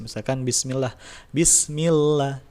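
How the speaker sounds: bismillah with a light, thin lam; slow recited bismillah, lam kept thin; thin lam recitation. Shown as a demonstration. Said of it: "itu kan lam biasa".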